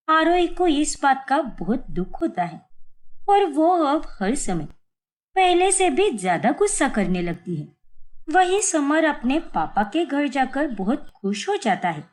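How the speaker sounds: even storyteller narration; story narration. A narrator's reading. Narrator telling a family story, calm storytelling voice. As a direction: tell the tale to the listener.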